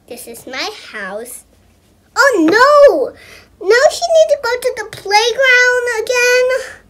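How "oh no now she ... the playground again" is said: exasperated. Real, not acted. Kid exasperated at pet's needs.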